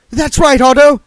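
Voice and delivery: high, loud cheering shout. Acted. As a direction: urge him on. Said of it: "shouted Sacharissa".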